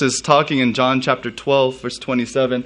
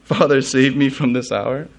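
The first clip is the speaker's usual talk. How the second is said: mock incredulous question; 3 semitones higher than usual. Preacher as Jesus questioning his own prayer, mildly incredulous. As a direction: ask it as if the idea were ridiculous. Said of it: "he thought that would be ridiculous".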